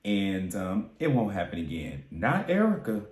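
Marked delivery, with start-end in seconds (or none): 0.0-2.0 polite apology voice. Retold or imitated. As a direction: play the sane friend making a nice apology. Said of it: "a rational, sane person would be like".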